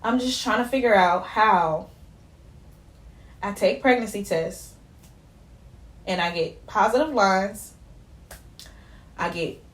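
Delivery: halting, long pauses between phrases; trying not to cry. Real, not acted. Telling viewers about her positive tests, haltingly holding back tears. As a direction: push on quietly through real tears held back. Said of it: "I'm trying not to cry".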